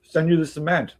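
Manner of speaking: high, loud imitation of a nosy neighbor demanding answers; mock accusing neighbor. Retelling the neighbor confronting him about the cement, mock high accusing voice. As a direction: pitch it up and needle him like the neighbor did. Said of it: "he's like".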